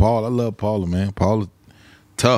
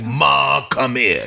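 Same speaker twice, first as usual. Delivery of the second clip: deep voice imitation; 3 semitones higher, 4 dB louder, much slower than usual. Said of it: "So you the one with the deep voice?".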